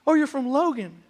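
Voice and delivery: thrilled to place the hometown; excited. Retold or imitated. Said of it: "I get excited".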